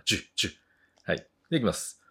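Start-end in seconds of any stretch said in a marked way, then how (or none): 0.0-0.5 "ジュッ" like moisture spitting off a hot plate; short, sizzling bursts on each "ジュッ"; sizzling sound. Shown as a demonstration. Teacher likening the J sound to evaporating water, sizzling. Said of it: "水分が飛ぶような".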